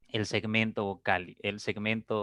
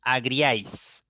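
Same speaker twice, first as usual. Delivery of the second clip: said slowly; slower than usual. Shown as a demonstration. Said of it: "aquí tienen".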